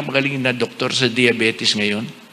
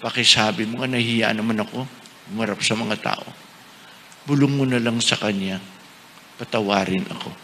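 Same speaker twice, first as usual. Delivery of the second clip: remorseful plea; 6 semitones lower, 8 dB quieter than usual. Retold or imitated. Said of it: "At sabi niya".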